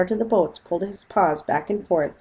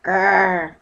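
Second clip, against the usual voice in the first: growl; 6 dB louder than usual. Acted. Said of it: "said Paddington".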